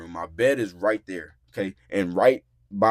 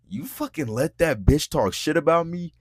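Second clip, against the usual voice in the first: imitated indignant outburst, higher pitched; mock-accusing, pitched up; angry accusation; 6 semitones higher, 4 dB louder than usual. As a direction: act out her outraged challenge. Retells her angry accusation.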